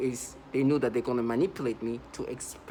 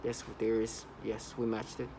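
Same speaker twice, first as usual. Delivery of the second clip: mildly put-on analytical murmur, lower and softer; logical, analytical voice; 3 semitones lower, 7 dB quieter than usual. Mimicking perps who try to sound systematic, in a mock-analytical voice. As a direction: mimic someone coolly confirming findings. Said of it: "this voice of try to sound very, like, logical".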